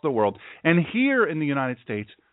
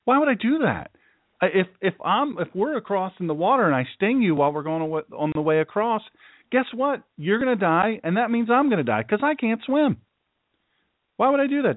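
scorpion, higher voice; 5 semitones higher than usual. Retold or imitated. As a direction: play the sly scorpion talking the frog round, pitched up. Scorpion argues with frog in fable.

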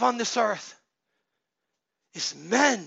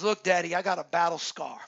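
a hint of a proud toddler, lower and steady; lightly voiced son showing off a scar; proud little boy; 5 semitones lower, faster than usual. Father voicing his son proudly showing a scar. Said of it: "He goes".

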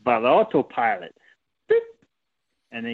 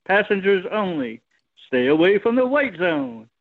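airport announcement; 5 semitones higher than usual. Retold or imitated. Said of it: "that scene from Airplane when you have the two voices".

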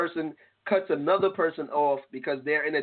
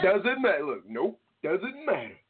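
DOESN'T MATTER in an emphatic put-on voice, falling at the end; emphatic "Doesn't matter", each one landing with finality; emphatic dismissal; 2 semitones higher than usual. Real, not acted. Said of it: "What is that voice?".

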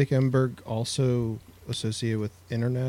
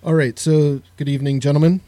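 moderator voice; 7 dB louder than usual. Acted. Moderator opening debate.

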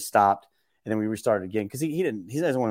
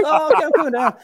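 high, louder put-on voice, obliging; imitating Jeff; 8 dB louder than usual. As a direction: play Jeff giving in cheerfully. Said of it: "he just goes".

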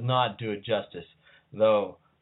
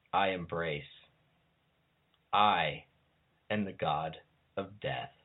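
solemn liturgy reading. Acted. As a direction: proclaim it like a priestess at a rite. Reads liturgy of god of death.

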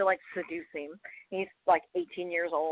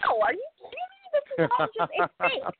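reassuring. Retold or imitated. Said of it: "I was like".

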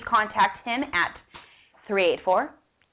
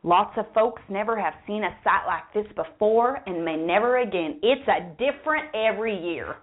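put-on southern accent. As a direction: keep a light Southern accent going. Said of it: "I'm gonna still do the southern accent".

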